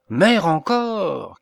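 loud, slow outraged cry. A narrator's reading. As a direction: shout it in shocked disbelief. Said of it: "cria saint Joseph".

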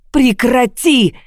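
high, drawn-out shout; cry out. A narrator's reading. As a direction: shout to make it stop. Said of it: "крикнула я".

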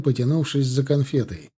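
ordinary delivery

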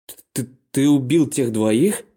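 stuttering in disbelief; shocked stammer. A narrator's reading. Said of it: "в шоке".

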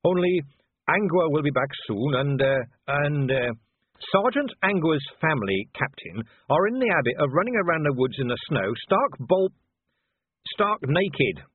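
friendly and helpful, lightly lifted; lightly voiced cheerful young Carrot. Carrot's voice in dialogue.

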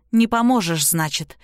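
plain reading voice

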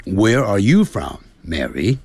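American "where" and "are" with curled r; American English drill. Shown as a demonstration. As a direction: roll the r American style. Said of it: "那在美式英语就是".

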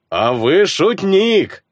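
slow, loud laughing herald. Acted. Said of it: "громко рассмеялся глашатай".

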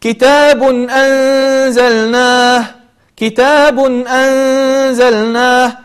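كتاب أنزلناه very slow, tanween sounded clearly before the hamza; slow Quranic recitation; recited tanween izhar. Shown as a demonstration. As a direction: chant كتاب أنزلناه slowly, no cut, no nasal. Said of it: "من غير أن أقطعه".

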